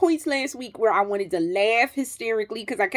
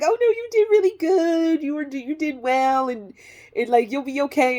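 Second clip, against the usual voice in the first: higher-pitched soothing staff imitation; retold reassurance; 4 semitones higher than usual. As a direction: reassure the patient in a lifted voice. Retold staff reassuring her afterwards.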